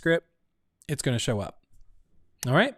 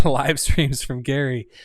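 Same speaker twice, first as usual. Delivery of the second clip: laughing; 5 dB louder, slower than usual. Real, not acted. Reading poll answers, laughs.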